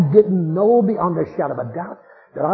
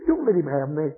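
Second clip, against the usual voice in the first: fading plea; 4 semitones lower, 4 dB quieter than usual. Retold or imitated. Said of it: "with a last gasp".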